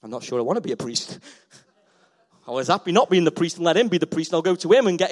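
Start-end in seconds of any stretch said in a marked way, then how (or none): 0.0-1.2 mock reluctant believer.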